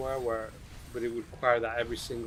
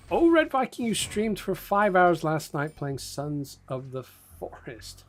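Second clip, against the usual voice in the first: excited greeting; 5 semitones higher, 4 dB louder than usual. Real, not acted.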